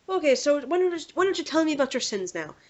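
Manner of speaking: lilting mock Irish accent. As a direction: play an Irish priest inviting a confession. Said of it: "he had a very thick Irish accent".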